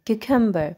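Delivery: क्यूकम्बर in one flow, second U light and unstressed; correct pronunciation. Shown as a demonstration. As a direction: glide through क्यूकम्बर without leaning on the second U. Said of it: "second वाले यू पे ज़्यादा ज़ोर नहीं देना". (क्यूकम्बर एक flow में, दूसरे यू पर ज़ोर नहीं)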